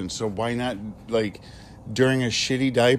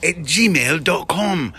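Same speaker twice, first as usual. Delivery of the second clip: mock British accent, pitched up; a playful fake British accent; 6 semitones higher than usual. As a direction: sign off the email address in a hammed-up British accent. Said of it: "we end on a British accent".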